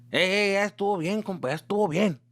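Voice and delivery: imitating angry dad. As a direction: play the dad telling him to knock it off. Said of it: "my dad's looking at me like".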